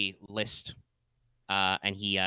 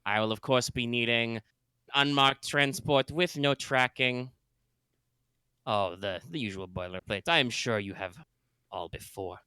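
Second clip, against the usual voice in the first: put-on space German accent. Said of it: "My, my space German accent".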